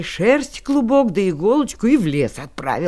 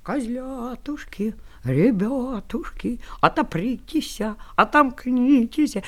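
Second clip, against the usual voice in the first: wolf in disguise. Acted. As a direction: coax the kids, wolf hiding. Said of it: "тоненьким голосом и запел".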